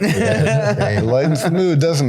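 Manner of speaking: amused, words drawn out by laughter; real laughing. Real, not acted. Guest joking with host about the kava, laughing.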